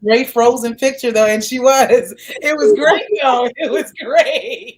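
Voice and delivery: warped, slowed video-call audio; glitchy laggy call sound; slow motion glitch. Real, not acted. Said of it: "Y'all sound like slow motion".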